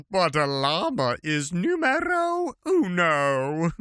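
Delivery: put-on a high, slow, shouted Spanish accent; hammed-up Spanish gaucho. Reading a limerick as Bruno, a hammed-up high Spanish accent.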